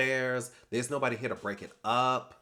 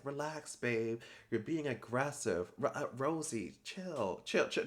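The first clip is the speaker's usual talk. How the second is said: imitating a soft, placating hush, voice lowered a lot; calm her down like a nervous friend, much softer; mock soothing hush; 6 dB quieter than usual. Kelsey soothing Rosie mid fight.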